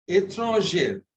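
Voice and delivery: ÉTRANGER with a closed "ay" in the last syllable; masculine ending. Shown as a demonstration. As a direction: say ÉTRANGER clearly, as a teacher modelling the masculine. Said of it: "étrangère is masculine".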